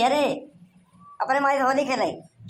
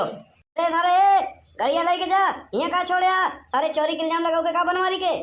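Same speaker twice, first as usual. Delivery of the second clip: put-on drunk slur; 4 semitones higher than usual. Drunk Banwari shouts at passersby.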